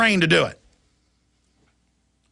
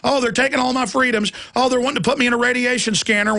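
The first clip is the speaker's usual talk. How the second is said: lightly mocking whine, higher; mock whining; 5 semitones higher than usual. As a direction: sneer at the complacent crowd. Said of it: "and just laugh".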